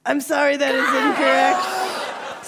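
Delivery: half-laughing apology, stretched incorrect; mock-sorry host laughing it off; laughing mock regret. Real, not acted. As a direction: announce the miss through laughter. Second wrong answer.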